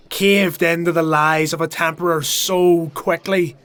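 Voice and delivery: furious rant. Acted. Sodrin denouncing the crowd from above, furious loud rant. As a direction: rail at them like a doomed prophet.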